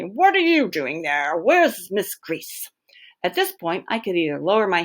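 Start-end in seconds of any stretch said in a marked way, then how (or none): 0.0-2.7 stern manager. Acted. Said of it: "he spits my name".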